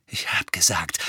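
voiceless, tense threat; low-volume warning; menacing whisper. A narrator's reading. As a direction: hiss it under your breath. Harry threatening his cousin.

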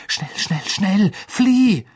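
rising, loud hurry; urgent shout. Acted. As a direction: push him to go now. Urging Sirius to flee. (drängender Ruf)

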